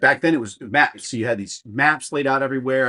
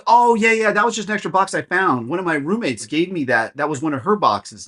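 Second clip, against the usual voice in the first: breezy dismissive; 6 semitones higher than usual. Retold or imitated. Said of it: "she goes".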